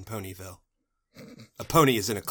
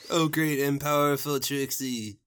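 lightly voiced worshipful sidekick; fawning admirer; 3 semitones higher than usual. Thirsty boys adoring their magician, lightly fawning. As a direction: fawn over the title, falling at the end. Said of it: "Thirsty boys are here again".

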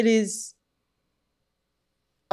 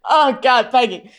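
mock British swoon; 3 semitones higher, 4 dB louder, slower than usual. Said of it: "And I'm like".

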